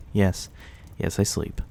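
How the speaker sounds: airy, laughing yes, yes; amused laugh. Real, not acted. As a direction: chuckle through the answer. Amused by the listener's question.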